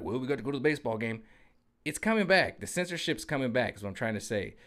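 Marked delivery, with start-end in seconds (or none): 0.0-1.2 oblivious people. Retold or imitated. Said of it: "People are just like".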